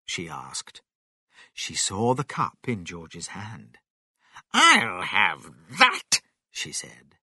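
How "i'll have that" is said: slow, loud, swooping character voice; demanding grandma. A narrator's reading. Grandma spotting George's cup, imperious demand. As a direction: claim it greedily, drawing out the words.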